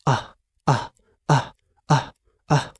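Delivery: the letter A said as a short clipped "آه", no long vowel; "آه" held short with a stopped vowel; short a sound. Shown as a demonstration. Teacher asks the class to repeat a short "آه". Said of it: "انطق كده معايا".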